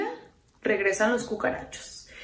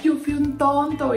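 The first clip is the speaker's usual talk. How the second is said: slow, drawn-out begging, imitating a sorry ex; hammed-up plea for forgiveness; mock pleading; 2 semitones higher, slower than usual. Imita al ex suplicando perdón. (súplica exagerada y burlona)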